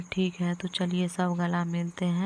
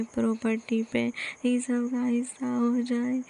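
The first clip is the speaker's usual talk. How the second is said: self-pitying lament; 2 semitones higher, slower than usual. Acted. Old mother complaining to God that the family plots against her, slow wailing lament. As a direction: moan to heaven that everyone is against her.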